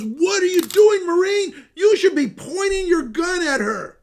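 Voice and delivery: high and loud mock officer's yell; retold angry yell. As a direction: bark it like the colonel pulling him back. Colonel barks at the Marine.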